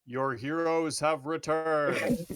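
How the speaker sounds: booming thunder and wind. Acted. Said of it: "cast Thaumaturgy and go".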